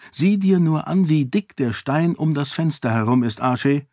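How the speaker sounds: lightly voiced lady, insistent; eager young lady. Lady urging her servant to look.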